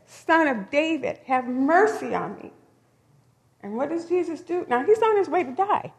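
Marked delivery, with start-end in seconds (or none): 0.1-2.5 calling out again. Retold or imitated. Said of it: "So he said".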